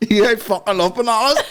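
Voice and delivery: put-on high, squeaky toddler demand; dad voicing the baby's banana outrage. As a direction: voice the greedy baby. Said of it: "He's like".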